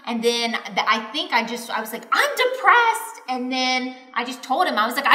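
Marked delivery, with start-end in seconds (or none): 2.2-3.1 much higher, louder imitated outburst; retold screaming. Wife yelling back at husband in a retold fight, screaming. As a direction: blurt it out, re-enacting a yell. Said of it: "I'm screaming back at him".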